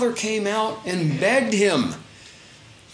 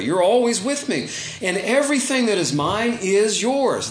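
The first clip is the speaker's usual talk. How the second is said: sincere, loving father; 4 semitones higher than usual. Shown as a demonstration. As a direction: say "You're always with me" as a heartfelt reassurance. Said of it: "I think he means it in the best way".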